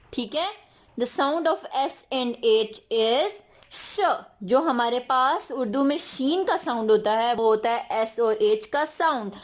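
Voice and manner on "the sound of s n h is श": slow and clear, the sound "श" stretched at the end; slow teaching voice. Shown as a demonstration. Teacher explaining the sound slowly to children. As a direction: spell it out slowly for young learners.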